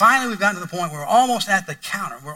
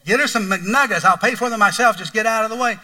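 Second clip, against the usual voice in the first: mock meltdown; 4 semitones higher, 5 dB louder than usual. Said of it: "Happy Meal meltdown".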